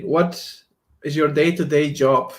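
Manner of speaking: ordinary talk, nothing marked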